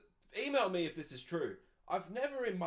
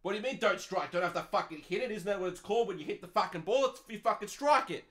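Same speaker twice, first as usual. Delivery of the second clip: mock indignant cricketer; 4 semitones higher, 5 dB louder than usual. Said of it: "the guy in the cricket's like".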